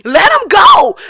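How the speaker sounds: high, loud, wailing dog voice laughing; heavenly dogs crying out. Retold or imitated. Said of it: "dogs in heaven looking down like".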